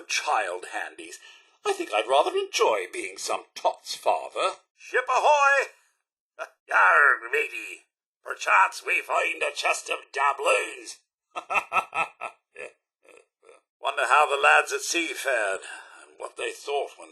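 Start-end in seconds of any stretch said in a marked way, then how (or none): 4.8-11.0 mock pirate. Butler playfully greeting his master aboard a wrecked ship, hammed-up pirate. 11.4-12.3 short amused chuckle; a little laugh at his own joke. Acted. Butler laughing at his own pirate game, light chuckle.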